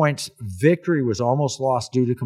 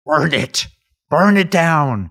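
loud, drawn-out burn it down; movie shout; 4 semitones higher, 7 dB louder, slower than usual. Retold or imitated. Quoting Henry Fonda's movie line, a loud mock shout. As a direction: bark the order like the movie. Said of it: "Henry Fonda".

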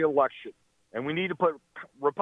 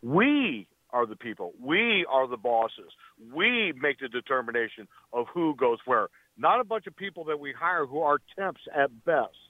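impassioned. Real, not acted. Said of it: "I really appreciate your passion".

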